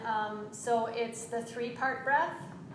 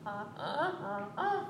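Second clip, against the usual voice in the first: donkey laugh; 2 semitones higher, 4 dB quieter than usual. Shown as a demonstration. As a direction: bray softly like a donkey. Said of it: "laugh like a donkey".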